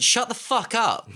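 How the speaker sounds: slow, high, loud put-down; mock annoyed yell. Fed-up viewer yelling at the laugher, loud. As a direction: bark it at the laugher. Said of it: "someone went".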